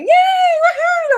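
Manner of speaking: high, slow, drawn-out mock whoop of joy; imitating euphoric cheer. Imitating the man jumping around, high slow whoop. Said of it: "jumping around and going".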